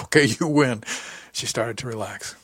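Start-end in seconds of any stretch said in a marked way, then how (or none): 0.0-0.8 conceding with amusement; louder, higher good-humoured surrender; amused. A narrator's reading. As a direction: give in as if just surprised into laughing. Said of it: "barked out a laugh".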